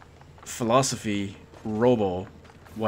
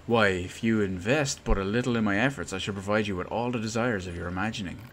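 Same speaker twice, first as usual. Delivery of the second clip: lightly voiced grandiose inventor courting an investor; inventor's sales pitch; 2 semitones higher, 5 dB louder than usual. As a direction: sell it with old-fashioned flourish.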